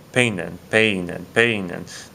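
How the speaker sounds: peinen with the first syllable stressed, PEI-nen. Shown as a demonstration. Teacher repeating peinen to show the stress. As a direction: lean on the E in peinen. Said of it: "The stress is over that E right here".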